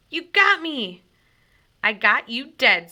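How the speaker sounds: high and loud playground shouting; loud kid shouts. A narrator's reading. Boys arguing who shot whom, shouting. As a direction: call it across the battlefield.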